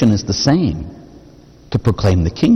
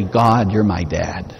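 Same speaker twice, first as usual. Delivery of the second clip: tender; 2 semitones lower, slower than usual. Shown as a demonstration. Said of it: "and you say".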